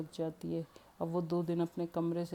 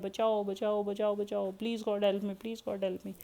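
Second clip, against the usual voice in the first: mock panic; 3 semitones higher, slower than usual. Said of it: "वो पागलों की तरह भाग रही हैं".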